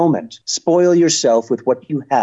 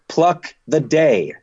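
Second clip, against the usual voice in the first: "Pluck the day" slowly, "Pluck" hit hard; insistent correction; 2 semitones higher, slower than usual. Shown as a demonstration. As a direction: hammer home "Pluck". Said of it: "Pluck, motherfucker".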